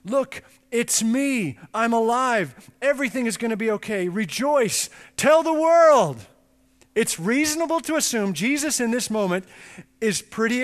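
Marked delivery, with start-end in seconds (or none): 0.0-6.2 bright joyful announcement building to a shout on the last words; rising joy, ending loud; excited reveal. Retold or imitated. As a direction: burst out with the good news. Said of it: "Isn't the moment crying out for him to reveal himself".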